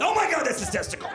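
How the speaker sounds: high-pitched shocked onlooker; mock horror. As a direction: act out an appalled discovery in a high voice. Onlooker horrified at the sight.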